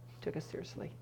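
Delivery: awed whisper. Real, not acted. Preacher marvels that God listened, whispered. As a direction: let it fall to a breath.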